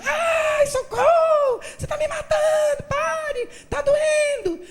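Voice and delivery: very high, loud theatrical cries of pain; staged screaming boy. Retold or imitated. Boy performing fake pain so his mother hears, high loud theatrical wail. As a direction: overact being beaten. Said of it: "de teatro".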